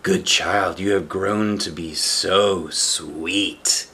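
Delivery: slow sly crooning wolf; greedy wolf. Acted. Wolf hugs the plump child, slow greedy croon. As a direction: savor the words like a hungry wolf.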